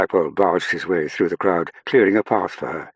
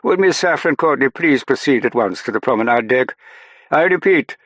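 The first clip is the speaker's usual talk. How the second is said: raised, high British public-address voice; very British announcement; 8 semitones higher, 6 dB louder than usual. A narrator's reading. British officer summoning Miss Courtney to the promenade deck, very British. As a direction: page someone in a very British accent. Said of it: "Colville's very British accent".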